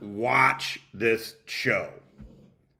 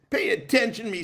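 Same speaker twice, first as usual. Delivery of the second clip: Finkel impersonation; 7 semitones higher, faster than usual. Retold or imitated. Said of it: "Finkel impersonation".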